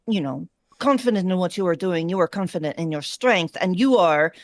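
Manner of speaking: put-on lightly Russian-accented orc warrior. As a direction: coach in a hint of Russian accent. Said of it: "I'm giving a Russian accent".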